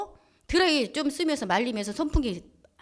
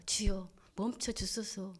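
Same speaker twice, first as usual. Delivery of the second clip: slow, soft plea to God; hushed, drawn-out supplication; retold quiet prayer; 3 semitones lower, 8 dB quieter, slower than usual. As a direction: pray under strain, slowly and softly. Retold prayer during a fight.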